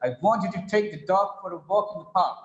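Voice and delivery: brisk model reading, weight on "want", "take", "dog", "walk", "park"; sentence-stress demo. Shown as a demonstration. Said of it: "That is why we read the sentence as".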